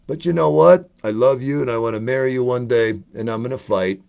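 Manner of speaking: lightly voiced boxer fumbling along in character; a hint of a movie boxer covering for forgotten lines; Rocky. Boxer telling Adrian he forgot his lines, light impression. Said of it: "if he'd messed up, it's like".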